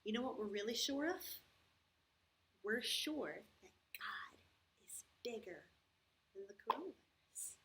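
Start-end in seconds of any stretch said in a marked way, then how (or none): 2.6-7.6 whispered, slow, like sharing a secret; hushed secret. Acted. Teacher whispers God's bigness to the kids, hushed. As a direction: lean in and whisper the comfort. Reassuring kids about the coronavirus.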